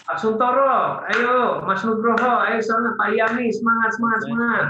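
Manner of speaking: high, insistent cheering-on; spirited pep talk. Acted. Trainer calling on participants one by one, high spirited urging. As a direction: urge each person on by name. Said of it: "intonasi yang bersemangat".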